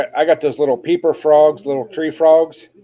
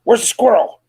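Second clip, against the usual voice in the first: excited pet voice; 9 semitones higher than usual. Real, not acted. Teasing the dog.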